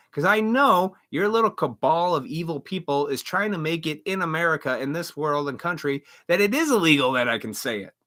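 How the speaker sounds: ordinary talk, nothing marked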